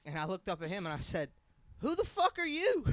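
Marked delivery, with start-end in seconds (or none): 1.8-2.8 much higher, louder, slow mock snap; high hammed-up retort in his voice; in character. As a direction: answer in the coworker's voice. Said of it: "I'm in character, bro".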